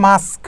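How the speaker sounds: "মাস্ক" with the k last, after s; correct pronunciation. Shown as a demonstration. Teacher repeating the correction, "মাস্ক" pronounced with final k. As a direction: say "মাস্ক" as "mask", ending in sk. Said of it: "মানে কেটা তো শেষে আসে".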